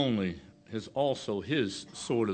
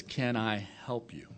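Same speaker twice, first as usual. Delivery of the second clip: soft whispered kind offer; hushed, kind question; kindly; 6 dB quieter than usual. Retold or imitated. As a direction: breathe it gently like a helpful clerk. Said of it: "so kindly says".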